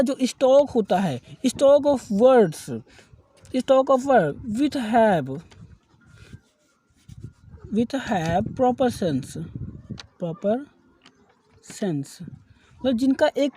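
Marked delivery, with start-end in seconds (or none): 1.5-2.6 very slow, word by word, for notes; slow dictation. Shown as a demonstration. Teacher dictating the definition to students, very slow. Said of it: "teacher dictates definition". 3.5-12.1 each word set apart with pauses; slow dictation. Shown as a demonstration. Teacher dictating vocabulary definition for notes, very slow. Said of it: "teacher dictates definition".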